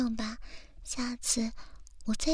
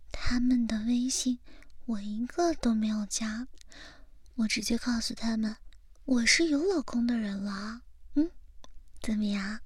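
whispering. Acted. Whispered cutesy boasting.

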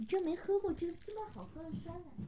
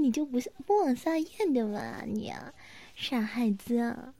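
ASMR whisper. Acted. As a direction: scold gently in a whisper. ASMR big-sister roleplay whisper. (宠溺地轻声耳语)

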